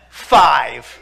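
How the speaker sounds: Holy Spirit moment, bold loud claim; bold loud five. Retold or imitated. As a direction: drop the number hard and loud. Announcing the price boldly.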